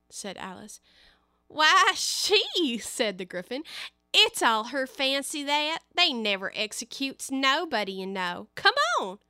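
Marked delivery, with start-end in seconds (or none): 1.5-9.2 high raspy creature voice; raspy voice with eagle shrieks. Acted. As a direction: squawk it like a gruff griffin. Griffin talks to Alice.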